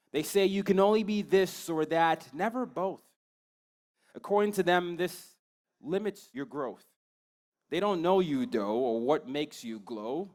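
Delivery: rhythmic poetry recital with lifted phrase openings; spoken-word poem. Acted. Poet telling students to embrace their complexity, spoken-word delivery. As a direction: perform it as slam poetry, pausing between lines.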